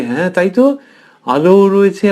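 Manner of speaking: put-on a child's delighted surprise; amazed agreement. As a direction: realise it's true and marvel. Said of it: "সেও দেখে অবাক হয়ে গেল".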